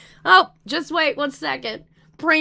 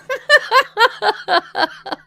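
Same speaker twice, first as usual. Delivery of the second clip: high, real burst of laughter; high-pitched giggling fit; laughing; 7 semitones higher, 3 dB louder than usual. Real, not acted. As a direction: laugh out loud in a long falling run. Laughs at own tea patter.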